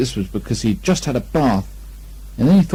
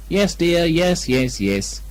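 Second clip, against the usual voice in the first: soothingly; 6 semitones higher, much slower than usual. Acted. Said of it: "said Kanga soothingly".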